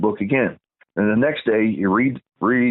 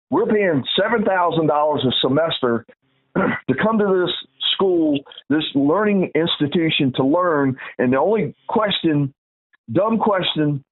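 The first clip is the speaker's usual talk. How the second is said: higher-pitched indignant dressing-down; retold angry rebuke; 5 semitones higher than usual. Student defending a crying girl against the professor, indignant. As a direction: replay telling off the professor, pitch raised. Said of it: "when I get pissed, I got a voice".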